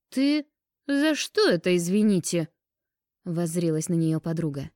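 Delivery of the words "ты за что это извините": high, incredulous challenge; indignant surprise. A narrator's reading. Friend hears that Liza is offended too, indignant surprise. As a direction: demand an explanation, pitched up and louder. Friend taken aback by the accusation.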